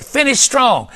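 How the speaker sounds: high, ringing repeated proclamation; chorus of voices. Retold or imitated. Preacher retelling the message they heard five times, chorus-like. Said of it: "it was like a chorus of voices".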